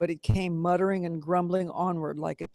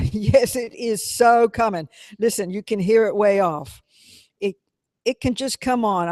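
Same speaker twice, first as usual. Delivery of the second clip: lazy stubborn voice; 3 semitones higher, 7 dB louder than usual. A narrator's reading. Motorboat lazily refuses to move.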